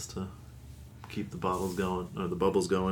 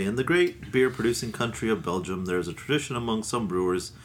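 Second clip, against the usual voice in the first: ad-copy reading voice; label read aloud. Acted. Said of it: "On the bottle here, they say".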